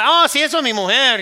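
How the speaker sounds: high, loud, breezy Spanish exclamation; hearty exclamation. Acted. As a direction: play a husband cheerfully introducing his wife. Acting out a proud Mexican husband.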